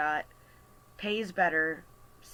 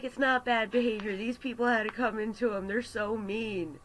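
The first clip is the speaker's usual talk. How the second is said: higher, indignant quote of a supportive partner; emphatic defence; 6 semitones higher, 3 dB louder than usual. Retold or imitated. Partner defending her against mean customers, emphatic. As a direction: imitate a partner insisting she did right.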